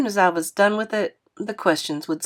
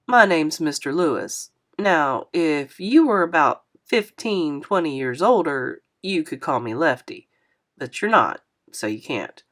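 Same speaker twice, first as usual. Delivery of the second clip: put-on a touch lower, friendly older man apologizing; lightly voiced kindly driver, a bit lower; 3 semitones lower than usual. Narrator voices Mister Lewis.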